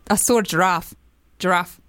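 attempted South African accent; South African accent, repeating the word. Shown as a demonstration. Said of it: "this is my South African accent".

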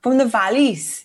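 slow, copied Welsh accent; tentative go at Valleys Welsh. Shown as a demonstration. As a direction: carefully imitate a Welsh lilt. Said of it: "do it for me and I'll".

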